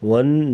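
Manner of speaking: ون with the n held long as a nasal hum; ghunna. Shown as a demonstration. Teacher shows the ghunna rule, holding the n of ون in a hum. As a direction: hum and hold the doubled n of ون. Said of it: "غنہ کر کے پڑھا جائے گا".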